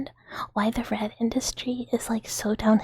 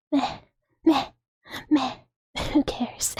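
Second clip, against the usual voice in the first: mock indifference; 4 semitones higher, slower than usual. Mimics America's indifferent response.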